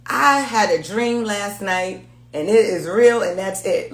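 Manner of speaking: slow, drawn-out imitation of a self-certain dreamer; mocking Leo's certainty, slow and deliberate. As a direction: spell it out slowly like it's gospel. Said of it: "Leo said".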